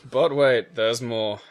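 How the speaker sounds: lightly voiced infomercial host; a hint of TV sales patter; shopping channel pitch. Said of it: "the fucking shopping channel".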